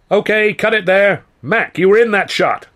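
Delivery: high, loud call of "cut". A narrator's reading. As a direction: shout it across the film set. Director calls cut on set.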